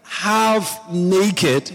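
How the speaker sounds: high, indignant reproach, stretched out phrase by phrase; hammed-up telling-off at normal volume; mock scolding yell. Saul's daughter scolds David for dancing half naked, mock scolding. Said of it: "Started yelling at him".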